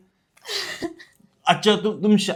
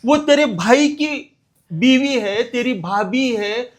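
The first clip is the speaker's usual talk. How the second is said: disgusted scolding; 2 semitones higher than usual. Acted. Father scolds son for abusing widow.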